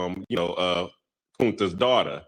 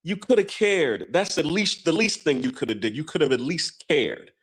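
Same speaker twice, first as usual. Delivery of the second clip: higher, scolding reproach; imitating a woman's raised reproach; reproachful woman; 5 semitones higher than usual. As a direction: scold him for not caring. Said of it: "she was all like".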